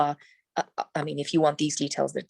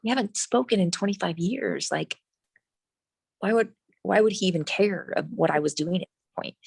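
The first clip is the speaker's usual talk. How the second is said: higher-pitched, disbelieving retort; incredulous protest; 3 semitones higher than usual. Retold or imitated. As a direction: protest as if the idea makes no sense. Retells her own incredulous objection.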